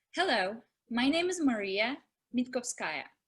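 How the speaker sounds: brief pause just before the surname. Repeating an audition introduction as directed: pause before the last name. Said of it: "Take a beat between Maria and the last name".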